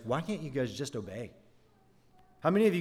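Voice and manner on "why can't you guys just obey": soft exasperated mutter to Israel; quietly fed-up aside, much softer; annoyed reader muttering. Retold or imitated. Reader of Exodus grumbling at Israel, soft and fed up. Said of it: "you're just like".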